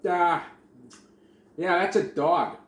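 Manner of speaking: mock the expert, drawing out each word; animal expert. Animal expert on TV identifying the creature, mocked in a loud slow voice. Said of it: "the animal expert's like".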